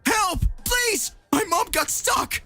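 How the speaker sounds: put-on high-pitched, panicked little boy; pleading child. Child begs help for trapped mother, high and panicked.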